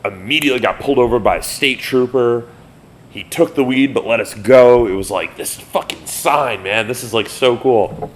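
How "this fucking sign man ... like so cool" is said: high, drawn-out stoned marveling; stoned awe. Retold or imitated. Bandmate gushing at the comet in the sky, dazed awe. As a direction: gush at the sky like a stoned kid.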